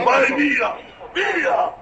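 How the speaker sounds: angry shout to chase someone off; shouting angrily. Real, not acted. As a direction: yell at him to leave. Cacciando via l'uomo in piazza. (urlo arrabbiato)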